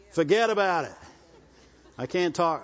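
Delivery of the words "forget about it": imitating a New York commercial catchphrase; lightly attempted New York accent. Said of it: "What's that commercial? ... Jersey Mike's?".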